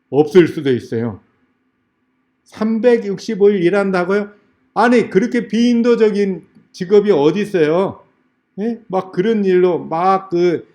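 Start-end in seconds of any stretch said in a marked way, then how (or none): 2.4-8.0 higher-pitched, incredulous challenge; acting out an interviewee arguing back; indignant protest. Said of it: "따지는".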